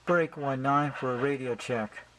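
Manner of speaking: CB radio call. Shown as a demonstration. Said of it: "Use the channel nineteen".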